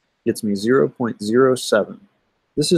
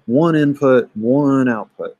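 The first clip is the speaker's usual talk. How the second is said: "one" raised and drawn out in both halves; stress on ONE; slower than usual. Shown as a demonstration. Teacher mimicking students' underlined word, stress on "one". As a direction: lean hard on each "one", stretching the second. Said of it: "and they underline it".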